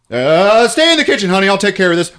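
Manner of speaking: protective husband. Acted. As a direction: keep the wife back, tight and nervous. Dad voiced in retold scene.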